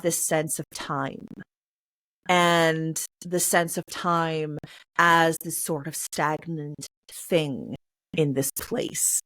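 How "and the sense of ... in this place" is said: slow, lowered voice with gravitas; slow and solemn, dropping to near silence on place. Shown as a demonstration. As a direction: let the voice sink for time standing still. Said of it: "you're lowering your voice".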